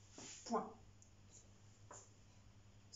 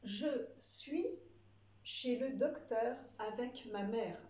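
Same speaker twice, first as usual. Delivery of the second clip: dictating. Shown as a demonstration. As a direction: read out each word for the pupils. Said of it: "C'est parti".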